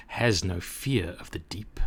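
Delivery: whispered shark threat; menacing whisper. Acted. Shark threatens the cork in a menacing whisper. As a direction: hiss the last words like a lurking shark.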